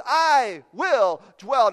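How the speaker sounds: slow stress on "I" in "I will dwell"; certain David. Retold or imitated. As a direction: say it with calm certainty. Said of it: "No uncertainty in the tone of David".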